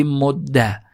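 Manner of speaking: "مده" ending in a short "a"; fatha ending. Shown as a demonstration. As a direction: say "مده" as modda, doubled d. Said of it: "هم فتحه بگیره".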